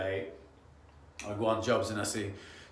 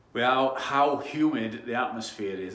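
posh voice; 2 semitones higher, 6 dB louder than usual. Shown as a demonstration. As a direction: put on a posh accent for "how humid the atmosphere is". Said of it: "That's my posh voice".

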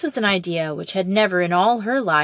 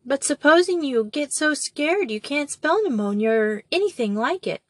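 feelingly; 7 semitones higher than usual. Acted. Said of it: "she said feelingly".

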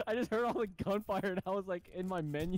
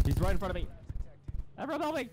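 panicked shouting; 2 semitones higher, 5 dB louder, faster than usual. Real, not acted. Enemy truck attacking, calls for help.

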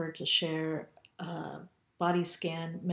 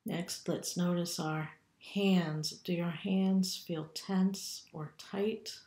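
calm, unhurried meditation guide with long pauses; guided meditation. Acted. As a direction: lead them gently through a body scan, leaving room to breathe. Leads body scan meditation.

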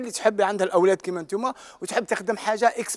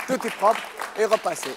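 "propre" leaned on in a slow repeat; much slower than usual. Shown as a demonstration. Magician to mothers, repeating the reveal slowly. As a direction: spell it out slowly, lean on "propre".

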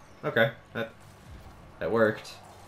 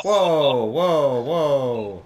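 startled whoa; 4 semitones higher, 6 dB louder, much slower than usual. Real, not acted. Startled, fading exclamations.

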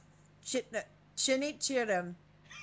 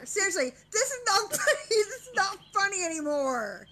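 exasperated giggling protest; 5 semitones higher, faster than usual. Real, not acted. Exasperated, giggling over failed attempts.

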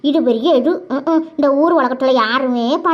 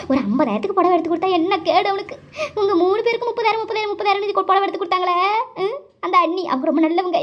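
tearful complaint; 3 semitones higher than usual. Acted. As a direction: whine out the hurt like a slighted younger sister. எதுக்கு அழுவுற?.

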